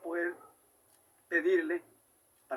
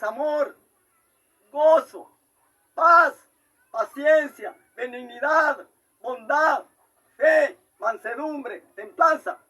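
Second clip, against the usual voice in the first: each fruit called out loud and high; fervent proclaiming; 5 semitones higher, 8 dB louder, slower than usual. Real, not acted. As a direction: cry out every word to the congregation. Preacher listing the fruits loudly. (proclamando con fervor, fuerte y agudo)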